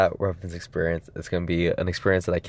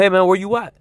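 higher, louder phone greeting; calling out; 9 semitones higher, 5 dB louder, faster than usual. Retold or imitated. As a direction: raise your voice so a friend overhears. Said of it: "just loud enough to where he can hear".

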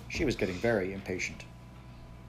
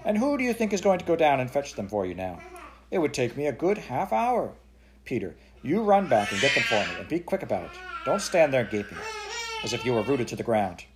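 higher, louder angry shouting; 3 semitones higher, 4 dB louder than usual. Acted. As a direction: shout orders impatiently. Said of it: "Daddy had been shouting".

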